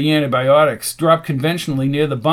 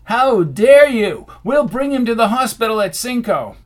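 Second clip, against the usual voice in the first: outraged; 7 semitones higher, 5 dB louder than usual. A narrator's reading. Dice takes offence at Rasputin, outraged. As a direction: bristle at the insult, pitched up.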